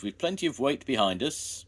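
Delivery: eager call. A narrator's reading. Jones urging Ivor on.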